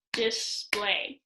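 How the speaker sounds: "display" in two shorter, separate beats; clapped out. Shown as a demonstration. Teacher clapping out syllables for pupils, "display" in two beats. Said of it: "find syllables by clapping out a word".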